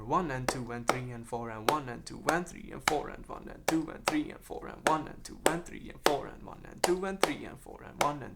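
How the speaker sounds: counting the beat steadily under the breath; rhythmic counting. Shown as a demonstration. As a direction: keep time by counting the pattern. Counting the clave rhythm aloud.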